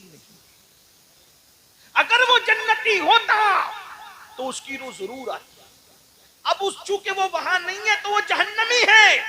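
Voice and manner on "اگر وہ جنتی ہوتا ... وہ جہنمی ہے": preaching at full force. Acted. Preacher declaring the dead man's fate, full-force preaching. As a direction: thunder it out to the crowd.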